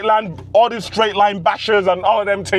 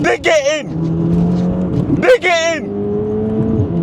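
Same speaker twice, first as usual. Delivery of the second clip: slow, stretched coaxing; drawn-out urging; much slower than usual. Real, not acted. Driver coaxing the car into the corner, slow. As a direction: stretch every word like easing through a corner.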